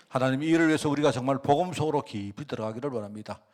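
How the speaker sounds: earnest pastoral prayer voice; closing prayer. Acted. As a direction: pray steadily and fervently over the congregation. (간절한 대표 기도 톤)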